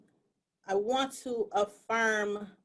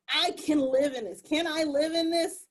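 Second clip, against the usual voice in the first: pleading question; 4 semitones higher than usual. Retold or imitated. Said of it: "And I'm like".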